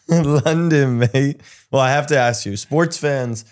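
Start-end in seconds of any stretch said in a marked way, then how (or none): 0.1-1.4 mimicking a London accent; mock London accent, amused; echoed London accent. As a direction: playfully echo a fake London accent.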